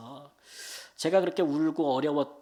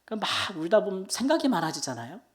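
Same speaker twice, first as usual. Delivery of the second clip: ordinary talk, nothing marked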